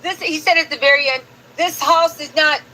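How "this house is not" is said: lightly imitated Belizean accent; a mild attempt at a Belizean accent. Host imitating the Belize member's speech, mock Belizean accent. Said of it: "I'm trying to do Belize in action".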